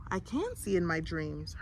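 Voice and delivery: soft hushed realization; boy answering the angel in a hush; whispered. Acted. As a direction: say it quietly, in awe. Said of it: "Herschel whispered".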